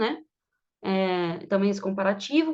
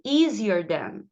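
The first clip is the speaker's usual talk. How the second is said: slow teaching demo; much slower than usual. Shown as a demonstration. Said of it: "teacher models the word slowly".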